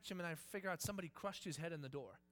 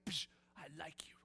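casual unafraid; 4 semitones lower, 6 dB quieter than usual. Pretend. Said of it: "you just walk up to any old snake".

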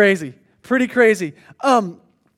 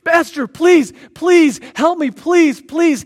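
begging for life; 4 semitones higher, 3 dB louder, slower than usual. Acted. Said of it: "He starts begging for his life".

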